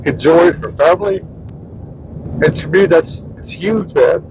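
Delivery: real tearful halting delivery; choked up. Real, not acted. Husband praising grieving neighbor, choked up. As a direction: push the words out through tears, pausing between phrases. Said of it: "you made my husband cry".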